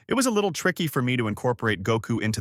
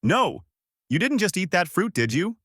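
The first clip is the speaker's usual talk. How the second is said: higher, panicked shout; alarmed yell; 8 semitones higher than usual. Acted. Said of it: "Shanks quickly yelled out".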